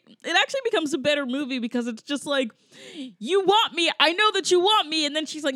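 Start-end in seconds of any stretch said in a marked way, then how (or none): 3.2-5.1 high, loud, bickering taunt; mock babyish yelling. Host imitates squabbling couple, man insisting, mock babyish yelling. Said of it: "yelling at each other like babies".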